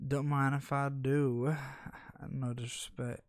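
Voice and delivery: slow, mildly Texan storyteller; a touch of Texan twang; Texan drawl. Pretend. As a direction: draw it out with a hint of Texas. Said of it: "Why you turn into a Texan?".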